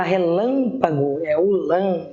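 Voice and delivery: relâmpago with a long, leaned-on LÃ; stress on LÃ. Shown as a demonstration. Teacher showing the strongest syllable, stressing LÃ in relâmpago. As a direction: stretch LÃ in relâmpago, then repeat it alone. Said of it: "que é a sílaba mais forte".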